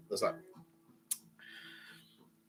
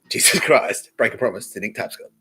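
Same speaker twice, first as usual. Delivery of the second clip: loud rant; 3 semitones higher, 8 dB louder than usual. Real, not acted. Ranting at Joe about breaking Jesus' promise, loud accusing rant. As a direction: demand an answer, pressing hard.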